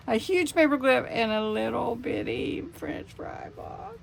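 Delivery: real laughter dropping to a whisper; laughing. Real, not acted. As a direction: laugh fading into a breathless whisper. Laughing while overwhelmed.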